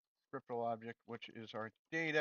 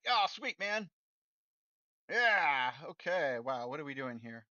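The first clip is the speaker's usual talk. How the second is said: excited reply; 2 semitones higher, 7 dB louder, slower than usual. Retold or imitated. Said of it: "So if Notch hired me, be like".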